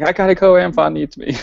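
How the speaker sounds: high, loud mock-heroic; heroic exit. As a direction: announce it like a hero called away. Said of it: "I was like".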